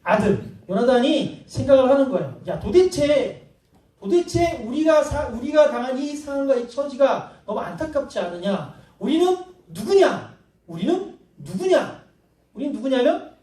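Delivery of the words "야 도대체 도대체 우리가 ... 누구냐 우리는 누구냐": slow, high, pleading voice of Jonathan; drawn-out mock lament; Jonathan's lament. Preacher voicing Jonathan's lament to his armor bearer.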